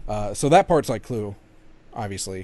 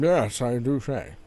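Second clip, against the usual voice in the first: mock posh British; slower than usual. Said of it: "proper Victorian British".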